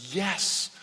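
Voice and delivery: drawn-out, thrilled yes with mild lift; excited yes. Acted. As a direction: act out a restrained thrill. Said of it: "the excitement, the thrill of it".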